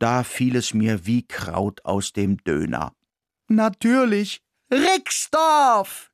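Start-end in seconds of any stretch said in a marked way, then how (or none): 3.5-6.1 higher, louder, bursting with the answer; excited cry. A narrator's reading. The mouse solves the riddle and cries the name excitedly. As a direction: shout it out in delight. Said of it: "schrie ich begeistert".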